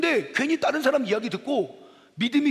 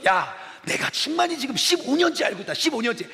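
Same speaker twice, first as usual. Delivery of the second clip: confident defence; 4 semitones higher than usual. Acted. Acts confident defence of longtime friend.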